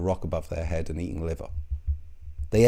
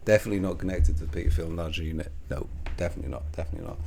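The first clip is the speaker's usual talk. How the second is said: fast, softer, mock insistence; sarcastic denial; 3 semitones lower, 4 dB quieter, much faster than usual. Vlogger's fast, quiet, sarcastic denial about Raw Egg Nationalist. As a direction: rattle it off like a wink.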